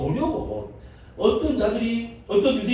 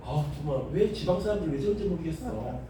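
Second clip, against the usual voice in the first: lower, softer muttered mock disdain; mock bystander disdain; 4 semitones lower, 5 dB quieter than usual. Seoul person puzzled by provincial folk, softly mock-disdainful. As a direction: imitate an aloof Seoulite, half laughing. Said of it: "이러고, 이러고 있으니까".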